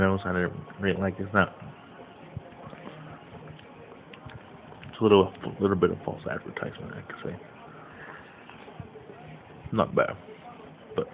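speaking between bites; talking while eating. Real, not acted. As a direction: mouth partly full. Seen 3: bites red cheese-filled snack repeatedly at lips while talking.

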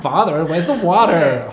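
slow, high, loud hammed-up posh English; plummy mock Brit asking for water; posh English accent. Parent showing off a posh English accent. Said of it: "English accent".

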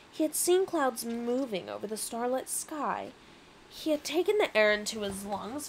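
measured, wistful storytelling; story narration. A narrator's reading. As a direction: narrate a memory, lingering on key words.

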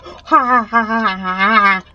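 deliberate spelled-out ha ha; mock laugh. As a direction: fake a hammy laugh.

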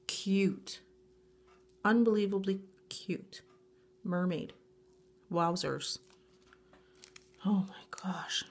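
breathless whispered wonder; awed whisper. Real, not acted. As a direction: whisper it in disbelief. Awed whisper over gift.

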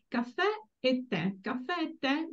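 "Caffè e tè" with stress on the final è; final-vowel stress. Shown as a demonstration. Teacher showing students the accent, "Caffè e tè" stressed on last vowel. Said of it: "the accent falls on the last vowel".

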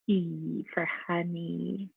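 E for honey said slowly and softly. Shown as a demonstration. Teacher gently modeling the E in honey. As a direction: draw it out gently. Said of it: "You hear the E in there?".

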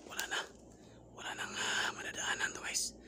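hushed whisper to viewers. Real, not acted. Whispering to viewers in a haunted house. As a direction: whisper so nothing hears you. Ghost-hunting vlog, hushed narration.

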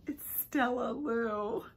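whispered reveal. Real, not acted. Vlogger revealing a Stella Lou, whispered. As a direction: breathe the name out as a secret.

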